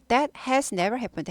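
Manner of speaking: "That has never happened" said slowly, word by word; slow, placed word order. Shown as a demonstration. Teacher modelling the correct order slowly for students. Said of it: "has가 데리고 다닌다".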